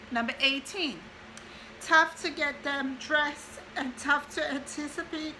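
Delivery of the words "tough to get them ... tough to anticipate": crying while reading. Real, not acted. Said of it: "Sorry, I'm crying".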